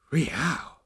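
high-pitched, drawn-out wow; much impressed. A narrator's reading. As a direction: let out an impressed exclamation. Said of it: "admitted Zaphod, much impressed".

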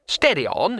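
high, chirpy reassurance; steady a friend cheerfully. A narrator's reading. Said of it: "he said cheerfully".

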